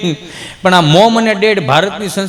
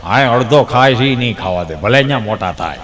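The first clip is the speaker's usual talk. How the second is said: put-on sly old man; 10 semitones lower than usual. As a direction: lower the voice into a wry grandpa. Grandpa explains punchline.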